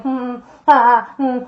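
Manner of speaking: mimicked wordless humming and huffing; imitated noises. Possessed girl locked in a room all night, making noises. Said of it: "like, making that noise".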